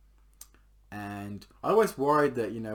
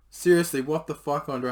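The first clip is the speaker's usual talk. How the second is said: put-on angry girlfriend; 4 semitones higher, 7 dB louder than usual.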